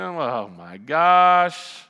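retold dismay. Reacting to procedure details.

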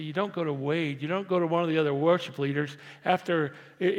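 ordinary talk, nothing marked

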